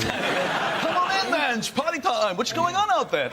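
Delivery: mock Dutch accent, stretched and pitched high. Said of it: "That's a Dutch accent".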